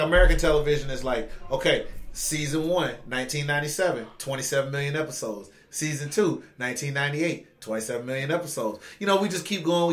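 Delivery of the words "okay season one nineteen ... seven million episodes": mock listing, dropping away softer at each item; matter-of-fact mock roll call; rattled-off season list. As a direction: recite it like a tedious catalogue. Mimicking a monotonous season listing.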